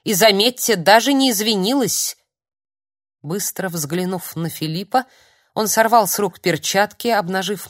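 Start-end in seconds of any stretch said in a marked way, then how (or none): 0.0-2.2 возмущённо. Acted. Старик продолжает возмущаться.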